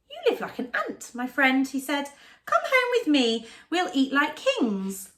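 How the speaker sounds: high, grand squeaky mouse; a lightly voiced showy mouse; boastful Town Mouse.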